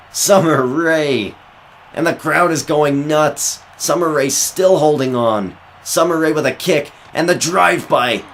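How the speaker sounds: high, loud finishing call; excited commentator. Acted. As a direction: scream the three count to the crowd. Finish and three count.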